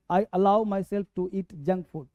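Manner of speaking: drawn-out teaching read; slow model sentence. Shown as a demonstration. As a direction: say it slowly for the class. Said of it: "teacher models sentence slowly".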